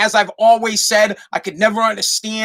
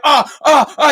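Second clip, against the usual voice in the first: louder, higher mimicked moaning; mock sex moans; 7 semitones higher, 5 dB louder than usual. Husband nearing climax with his wife, mock moans. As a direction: imitate climax noises, hammed-up.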